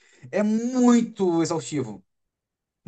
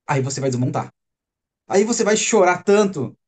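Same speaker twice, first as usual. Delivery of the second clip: ordinary talk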